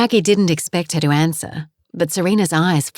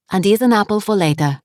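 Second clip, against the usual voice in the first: put-on French accent; 3 semitones higher, faster than usual. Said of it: "her accent was heavy".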